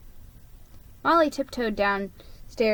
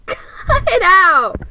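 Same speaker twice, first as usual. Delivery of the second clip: high, slow, much louder yell; Molly shouting at her brother, much louder and higher; shouted protest; 10 semitones higher, 12 dB louder, slower than usual. Acted. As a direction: yell it back up at him, half laughing. Molly hit by snowballs, protests.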